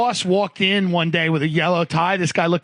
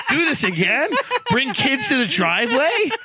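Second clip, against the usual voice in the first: higher, laughing retold disbelief; incredulous; 7 semitones higher than usual. Colleague questioning a dad's threat, high amused incredulity. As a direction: echo the absurd charge back as questions. Acts out his appalled reply.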